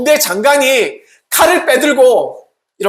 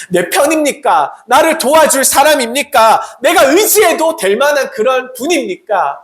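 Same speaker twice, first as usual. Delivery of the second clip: urgent questioning; 5 semitones higher than usual. Acted. Acts out anxious commander's questions.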